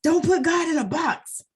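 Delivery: quoting religious elders. Retold or imitated. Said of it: "they always used to say".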